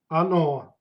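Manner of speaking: Оно with the weight on the final О; Оно demo, ending stressed; stress on the last vowel. Shown as a demonstration. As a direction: lean on the end of Оно. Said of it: "stress goes to the last vowel".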